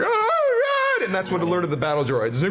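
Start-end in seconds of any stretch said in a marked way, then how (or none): 0.0-1.1 hammed-up wailing panic; acted tearful outcry; mock crying freak-out. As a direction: wail it like a panicking coward. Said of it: "is crying, freaking out, going".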